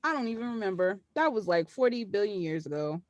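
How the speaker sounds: imitating a cold brush-off; retold icy indifference, lightly played; cold dismissal. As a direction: wave it away, coolly unbothered. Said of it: "she said it so cold".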